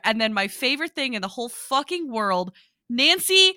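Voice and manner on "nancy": slow, high, loud proclamation; drawn-out excited yell; gleeful shout. Real, not acted. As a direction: shout it, dragging out the big reveal. Excited climax of favorite scene.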